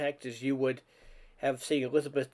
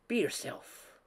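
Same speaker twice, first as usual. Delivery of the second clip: breathy whispered advice, higher and hushed; soft whisper; 9 semitones higher, 5 dB quieter, slower than usual. A narrator's reading. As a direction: whisper it gently to her like a secret. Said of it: "she said softly".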